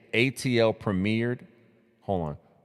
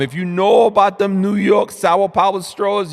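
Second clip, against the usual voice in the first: much higher and louder, hyped shout-outs; hype shout-out; 9 semitones higher, 8 dB louder than usual. Real, not acted. Streamer hyping New York straws to chat, loud and high. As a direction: hype it up like a radio host.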